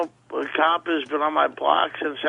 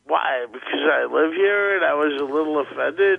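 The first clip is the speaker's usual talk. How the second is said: slightly slurred. Real, not acted. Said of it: "you sound a little slurring".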